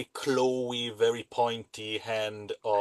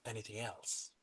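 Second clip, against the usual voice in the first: hushed, very soft role-play voice; softly spoken in-character dealmaker; quiet, scheming character; 15 dB quieter than usual. Acted.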